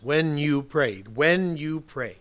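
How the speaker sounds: slow, deliberate weight on each word of "When you pray"; emphatic. Retold or imitated. Preacher quoting Jesus's very emphatic command, emphatic and slow. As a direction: lay down "When you pray" slowly as a rule. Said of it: "very emphatic tone that he took".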